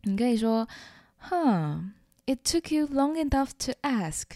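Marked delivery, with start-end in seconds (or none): 1.3-4.2 mock-reluctant, with a pause before giving in; tsundere acceptance. Shown as a demonstration. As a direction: play hard to get, then concede the yes. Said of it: "超傲娇". (傲娇地勉强答应)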